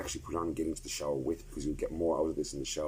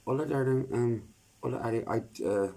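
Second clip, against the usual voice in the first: excited greeting; 7 semitones higher, 5 dB louder than usual. Real, not acted. Greeting someone arriving.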